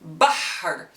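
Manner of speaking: bahr said slowly as an Arabic word; Arabic letter names. Shown as a demonstration. Teacher models the Arabic word bahr for learners. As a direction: say bahr with a deep open a. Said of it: "we will write the word".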